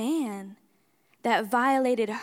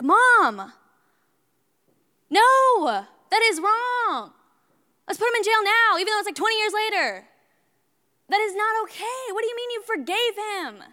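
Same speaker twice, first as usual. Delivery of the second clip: much higher and louder protest to Mom; indignant outburst; 9 semitones higher, 6 dB louder than usual. Retold or imitated. Little daughter protesting to Mom, high and loud. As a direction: cry out like a scandalized child.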